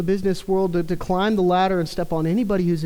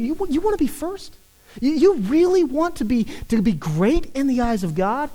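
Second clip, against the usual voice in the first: drawing listeners in; 3 semitones higher than usual. Acted. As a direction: tease them in, then land it. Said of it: "And he draws them in".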